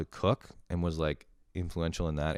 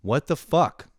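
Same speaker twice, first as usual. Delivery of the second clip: complaining loudly; 3 semitones higher, 5 dB louder than usual. Shown as a demonstration. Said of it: "I start complaining loudly".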